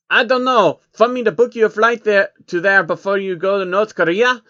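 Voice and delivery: a cruel banker pretending to be kind; malicious offer. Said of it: "expression of malice".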